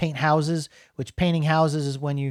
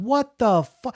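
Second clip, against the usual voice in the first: higher-pitched, baffled reaction; retold disbelief; 6 semitones higher than usual. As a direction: cut yourself off in mock shock. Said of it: "and I'm going".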